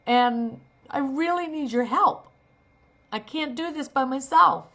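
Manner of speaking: pleading out of real desperation; desperate plea. Shown as a demonstration. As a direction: beg like there's no one else. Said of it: "That's how you make a choice".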